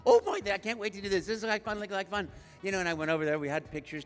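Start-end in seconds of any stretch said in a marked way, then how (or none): 0.0-2.3 excited inner voice. Retold or imitated. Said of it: "I'm like".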